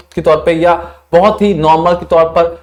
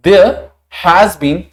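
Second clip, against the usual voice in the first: reading example sentence; much slower than usual. Shown as a demonstration. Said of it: "use किया गया था".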